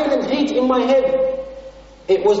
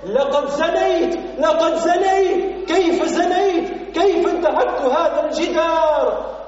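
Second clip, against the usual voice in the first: raised cry in Arabic, climbing higher; retold scream; 5 semitones higher than usual. Preacher voicing the sinner's cry after his sin, raised retold shout. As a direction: cry out the confession as a partly acted shout. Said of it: "as far as I could reach with my voice".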